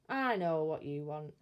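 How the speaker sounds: low, confident guess; knowing burglar. Acted. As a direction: tell the baby you've got it figured. Bill guesses baby's need.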